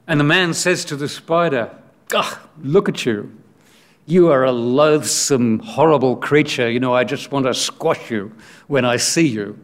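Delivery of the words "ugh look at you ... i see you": loathing, addressed to a creature beneath you; disgusted. Acted. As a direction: recoil in mild disgust. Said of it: "he speaks like this to the spider".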